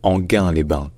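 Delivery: Anguin-les-Bains said "an-GAIN-lay-ban"; Anguin-les-Bains with hard g and no glide; correct hard g. Shown as a demonstration. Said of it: "il faut la lire comme le mot gain".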